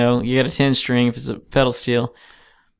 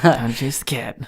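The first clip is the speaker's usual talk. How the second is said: whisper. Pretend. Joking voice for the noisy neighbors.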